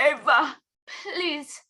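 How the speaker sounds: imitating mom's exasperated "please"; hammed-up pleading; dramatic mock plea. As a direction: plead like a telenovela mom. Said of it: "she, she goes".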